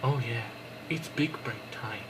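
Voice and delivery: deep meme voice. Pretend. Meme voice over clip.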